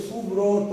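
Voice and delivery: "সুব্রত" drawn out as "su-bro-to"; final o sounded. Shown as a demonstration. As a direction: linger on both o sounds in "সুব্রত". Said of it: "তয়ের সাথে একটা অয়ের আওয়াজটা আসছে".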